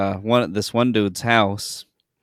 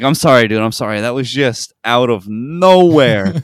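loud retold protesting apology; mock-apologize, punching the words; exasperated apology; 7 dB louder than usual. Guest to host after laughing at his bad news, exasperated apology.

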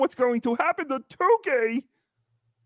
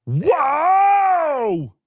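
higher, louder surprised whoa; higher loud shocked cry; 6 semitones higher, 6 dB louder than usual. Acted. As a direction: gasp it out in shock. Shocked reaction to news.

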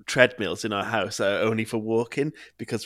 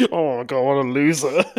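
mock jeering; 3 semitones higher, 4 dB louder than usual. Mocking bullies in the background.

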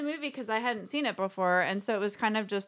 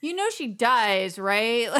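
laughing disbelief; 4 dB louder, slower than usual. Retold or imitated. Retold reaction during the movie.

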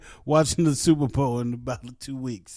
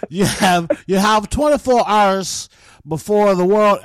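put-on loud, shaky grasp of an Aussie accent; bad Australian accent; 4 semitones higher, 5 dB louder than usual. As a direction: attempt an Australian accent and miss. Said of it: "I can't do the Australian accent".

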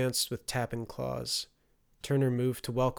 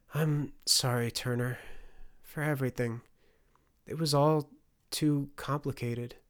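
sorry; 4 semitones higher than usual. Acted. Mother apologizes to her son.

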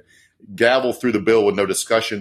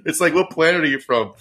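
incredulous; 8 semitones higher than usual. Real, not acted. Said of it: "mocking disbelief at protesters".

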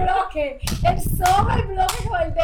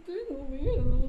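slow cartoon-dog whimper, not pitched up; lightly voiced scared Scooby; drawn-out mock Scooby fear; Scooby-Doo; slower than usual. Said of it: "Me siento como Shaggy".

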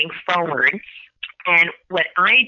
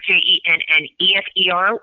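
spelling it out. Shown as a demonstration. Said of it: "So I'll spell it slowly".

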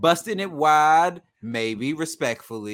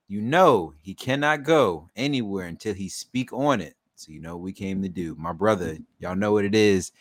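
podcast host welcome in a lower register; show intro; 6 semitones lower than usual. Acted. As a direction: introduce your co-host like a hype man.

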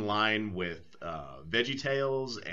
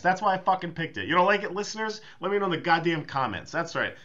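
hammed-up angry rant, higher and louder; a wrestling heel baiting the listeners, mock fury; mock heel-turn rant; 9 semitones higher, 5 dB louder, faster than usual. There's a fucking heel turn.

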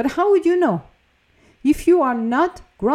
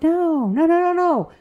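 higher, insistent no no no; firm refusal; 5 semitones higher than usual. Retold or imitated. The speaker voices a calm refusal to someone wanting it all, firm and insistent. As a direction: shut it down like a parent stopping a child.

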